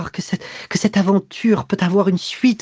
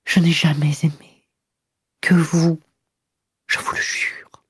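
higher, breathless, near tears; panting anguish; 8 semitones higher than usual. A narrator's reading. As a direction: confess it gasping and breaking. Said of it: "d'une voix haletante".

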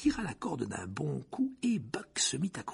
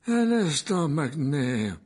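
Dumbledore; 3 semitones higher, 5 dB louder, much slower than usual. A narrator's reading. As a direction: call out with calm authority, pitched up. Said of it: "la voix de Dumbledore". (voix haute et posée qui interpelle)

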